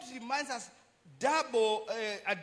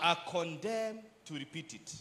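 slow, measured close, lower and restrained; slow repetition; 4 semitones lower, 4 dB quieter than usual. Shown as a demonstration. Preacher completes the repeated saying for the congregation, slowly. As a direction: finish the quotation slowly and deliberately. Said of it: "Let me repeat that again slowly for us".

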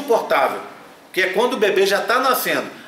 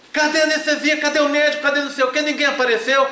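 much higher, exasperated string of demands; mock exasperated patient; 8 semitones higher, faster than usual. Patient complains to nurse nobody came, high exasperated. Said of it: "aí você vira".

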